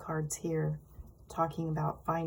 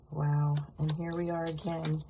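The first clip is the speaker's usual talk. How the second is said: wheezy voice. Real, not acted. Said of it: "I'm wheezing".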